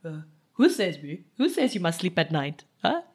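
put-on a drowsy boyfriend rallying into loud cheer; sleepy voice. Boyfriend woken at night, sleepy then loud. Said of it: "in his sleepy voice".

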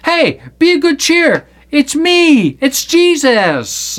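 high, cheerful hail; Jesus. Acted. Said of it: "Jesus spake unto them, saying".

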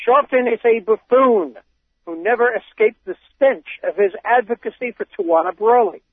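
put-on reading a quote in a light Boston accent; hint of a wicked Boston accent. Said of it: "break out my wicked Boston accent".

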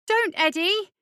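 high, loud pleading wail; desperate plea, pitched right up; distressed wail. A narrator's reading. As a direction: wail in protest at the bully. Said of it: "wailed Sonny".

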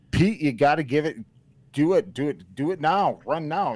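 screaming encouragement. Retold or imitated. Coach screaming at runner Pete at the race end. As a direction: drive the runner home at the finish. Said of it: "when you're screaming at the end".

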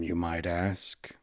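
slow breathy villain whisper; whispered aside. Acted. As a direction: drop to a hiss of a whisper.

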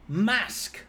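a high mock shout of one word; imitated shout. Barmaid shouting across the pub at him, high mock shout. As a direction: call it across the bar, pitched high. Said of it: "she shouts over".

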